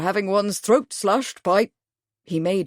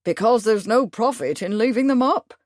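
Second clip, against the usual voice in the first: great reasonableness; 4 semitones higher, 3 dB louder than usual. Acted. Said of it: "with great reasonableness".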